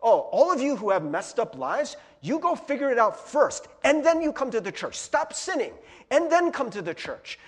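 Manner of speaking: loud, high, insistent ordering; mock scolding church. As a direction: lay down conditions like a scolding church. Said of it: "that's the message that the church presents".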